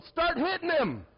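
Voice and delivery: loud, high drawn-out holler; full-voiced shout reenacting the moment; retold yell. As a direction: yell it across to egg them on. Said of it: "I just yell".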